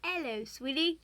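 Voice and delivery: a second light British "Hello, sweetie"; coy British greeting with a rise; hint of a British accent, teasing. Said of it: "if you said that in a British accent".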